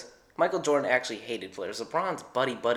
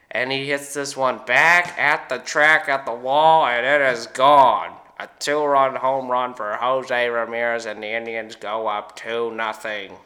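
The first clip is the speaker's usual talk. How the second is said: home run call, slow, building louder; Joe Buck impression; 7 dB louder than usual. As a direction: call the homer like a baseball announcer. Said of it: "Joe Buck announcing baseball".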